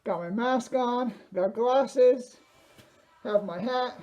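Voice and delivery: through a face mask. Real, not acted. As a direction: push the words out behind a mask. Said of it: "I'm losing my breath here 'cause I can barely breathe in this thing".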